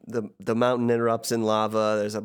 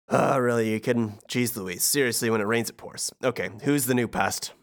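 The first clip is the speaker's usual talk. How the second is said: Hades voice. Acted. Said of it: "and Hades says".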